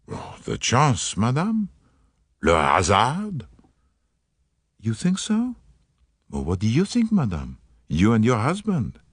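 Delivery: lightly voiced Poirot, gallant and polite; a hint of a French-accented detective, charming; courteous Belgian detective. Poirot answers the worried mother.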